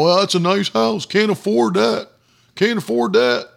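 lightly voiced whiny doubter; mock the man who keeps saying he can't. Preacher mimicking a doubter, lightly mocking. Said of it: "I didn't sit around going".

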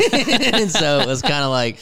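laughing through the words. Real, not acted. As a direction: chuckle while saying it. Laughing while telling.

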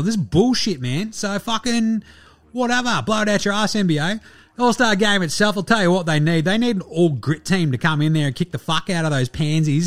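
lively, sweary, self-promoting sports rant; Delly. Acted. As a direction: rant like a cocky player snubbed from the contest. Voices Delly's guest review segment.

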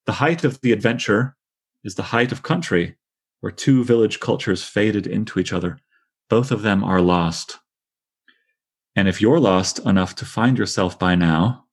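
measured poetry recitation; reading a poem aloud to the class. Acted. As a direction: read the lines with care, letting them land.

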